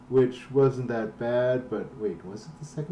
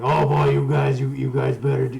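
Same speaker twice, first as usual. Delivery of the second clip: pack-a-day smoker voice. Retold or imitated. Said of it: "giving him, like, a, a pack-a-day smoker voice".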